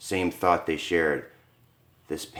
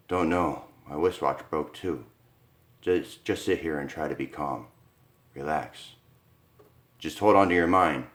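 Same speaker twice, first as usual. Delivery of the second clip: lower, softer calming husband; reassuring Arthur; 4 semitones lower, 4 dB quieter than usual. Acted. Husband calming wife in the dark, lower soft reassurance. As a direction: hush her fears gently.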